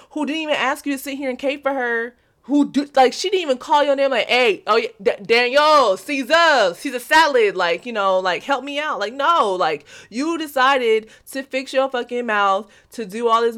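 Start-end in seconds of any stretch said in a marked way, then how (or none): 4.3-9.0 louder, higher whiny mock plea; a hammed-up helpless woman calling for backup. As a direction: ham up someone begging for help. Mocking woman asking for help.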